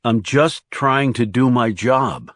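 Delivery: slow, deliberate line landing on "job"; stress on "job". A narrator's reading. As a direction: lean pointedly on the last word, "job". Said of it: "The emphasis on the last word".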